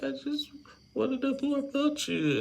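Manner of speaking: very high squeaky mock voice; mock her in a tiny high voice; imitating Darcy. Mocking Darcy's tearful answer in a high voice. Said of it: "He's like".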